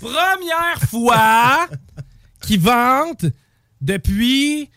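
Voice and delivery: lent et pince-sans-rire; sarcastique. Pretend. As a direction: appuyer l'ironie, mot par mot. Blague sur le vent. (ton sarcastique et lent)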